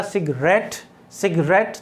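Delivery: "सिगरेट" with रेट stressed; teacher's demo, "सिगरेट" stressed at the end; stress on third syllable. Shown as a demonstration. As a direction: lean on the final रेट of "सिगरेट". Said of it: "third syllable पर stress है".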